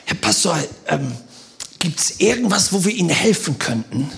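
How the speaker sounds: soft, low mock-penitent voice; contrite penitent. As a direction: imitate a sheepish man offering help. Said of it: "mit so einer Büßermiene".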